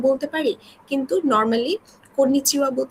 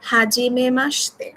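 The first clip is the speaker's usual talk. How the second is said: হাজিমে মাসতে said slowly for the class to echo; slow model for repeating; slower than usual. Shown as a demonstration. Teacher asks the class to repeat after her, slowly. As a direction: lay it out slowly so they can repeat. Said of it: "আমার সাথে একটু kindly repeat করবেন".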